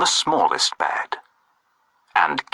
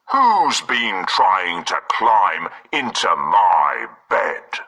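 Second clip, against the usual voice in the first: roaring Father Bear; 4 semitones lower, slower than usual. Acted. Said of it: "roared Father Bear".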